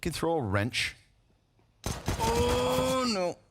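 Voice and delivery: brisk caster call, rising with each frag; live play-by-play. Real, not acted. Caster counts off the opening frags, rising play-by-play. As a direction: build as the kills land.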